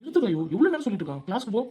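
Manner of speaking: angry. Acted. Sidhu snaps at Kayu to leave.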